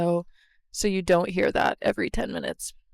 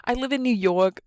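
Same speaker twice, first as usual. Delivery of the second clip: mock self-imitation; 3 semitones higher, 4 dB louder than usual. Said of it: "Why did I say it like that?".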